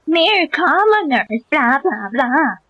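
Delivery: sarcastic parroting of a pompous line; mocking parrot. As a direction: drawl it out to mock the priest. Mocking the priest's speech.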